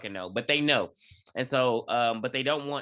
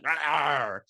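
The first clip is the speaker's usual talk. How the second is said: mock monster roar. Imitates ice teeth coming out.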